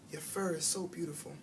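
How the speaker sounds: hushed, gentle and soft; soft whisper. A narrator's reading. Shy girl whispering to the hamster, hushed and soft. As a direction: breathe it softly to the hamster. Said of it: "she whispers".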